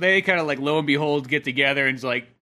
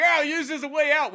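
higher, laughing rogue voice; a lightly hammed-up rogue; mock excuse; 10 semitones higher than usual. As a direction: play it as a flimsy excuse. Voicing Dag's excuse.

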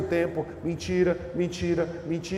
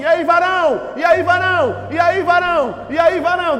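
loud, higher, chummy hail; churchy buddy greeting; 8 semitones higher, 8 dB louder than usual. Retold or imitated. Church friend greeting you, loud chummy hail. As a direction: hail a brother across the room. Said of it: "Tem outro que vira e fala assim".

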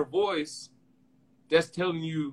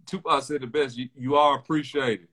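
a rapper's voice. Retold or imitated. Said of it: "That was my rapper voice".

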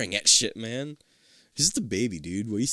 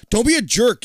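annoyed; 9 semitones higher, 5 dB louder than usual. Acted. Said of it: "you say".

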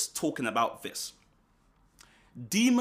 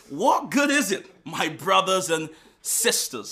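1 louder rereading; 3 semitones higher, 6 dB louder than usual. Shown as a demonstration. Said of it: "I'll read it again".

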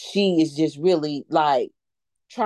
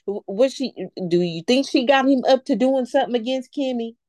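normal talking voice

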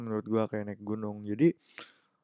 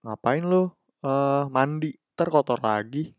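high, louder sarcastic voice; mocking quote; 3 semitones higher, 4 dB louder, slower than usual. Speaker mocks a lazy excuse about bathing, high and sarcastic. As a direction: mimic a lazy excuse with scorn.

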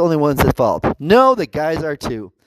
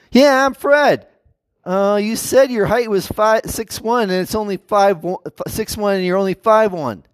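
indignant woman; 4 semitones higher than usual. Retold or imitated. Acted disappointed woman.

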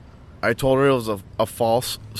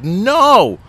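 mimicking Tiff scolding; 7 semitones higher, 7 dB louder than usual. Tiff scolding about the vet.

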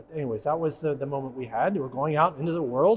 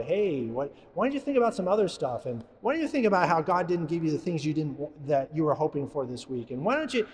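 a sly, softer whisper-like tempter in the ear; tempting demon voice; 4 dB quieter than usual. Acted. Priest voicing a demon tempting at communion, sly and soft. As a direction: coax like a demon at your ear. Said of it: "in, like, a voice like that".

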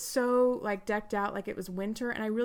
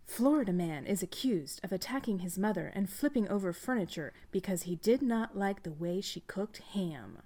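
newscaster voice; 4 dB quieter than usual. Pretend. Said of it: "cool newscaster voice".

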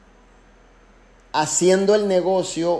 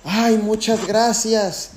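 lightly voiced delighted member; grateful member; 4 semitones higher than usual. Member thanking after finally doing her order, mild relief. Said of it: "qué dijo la líder".

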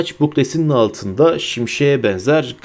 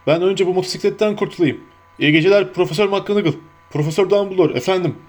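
higher-pitched, tearful giant; Hagrid, choked up; 6 semitones higher, faster than usual. Acted. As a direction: say goodnight while holding back tears. Narrator voices tearful Hagrid.

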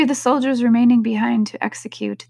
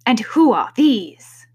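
queen's voice; 3 semitones higher, 5 dB louder, slower than usual. A narrator's reading. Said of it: "said the queen".

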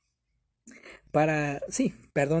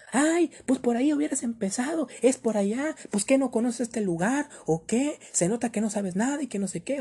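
imitated yell, much higher and louder, scolding; rude yell; 7 semitones higher, 3 dB louder than usual. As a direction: mimic the staff girl yelling rudely. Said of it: "me vuelve a gritar". (imitando un grito grosero, más agudo y fuerte)

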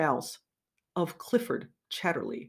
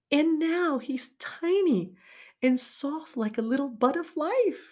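higher, slower lady's voice; lightly voiced woman, pitched higher; tender woman's voice; 9 semitones higher than usual. Connie voiced in read passage.

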